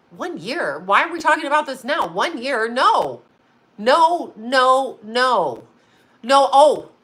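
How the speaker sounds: incredulous question into repeated firm noes; indignant refusal. Retold or imitated. Wife objects to husband's one-year demand, indignant.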